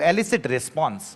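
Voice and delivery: phrase said very slowly; slow key phrase. Shown as a demonstration. Teacher repeating the phrase slowly for students. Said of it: "इसको कहा जाता है to elicit response".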